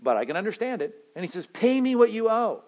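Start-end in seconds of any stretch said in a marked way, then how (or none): 1.5-2.6 loud, higher, harsh demand for payment; furious master demanding his money; angry demand. Acted. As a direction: bark it like a creditor. Master demands debt, acted.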